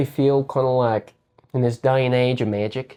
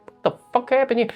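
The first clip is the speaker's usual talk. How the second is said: imitated stunned outburst, pitched much higher; shocked disbelief; 12 semitones higher than usual. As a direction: play the baffled bystander who can't believe it. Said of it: "You're like".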